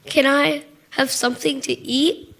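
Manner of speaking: soft, small pleading voice; quiet plea. Retold or imitated. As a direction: ask it quietly, almost shy. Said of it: "almost quietly".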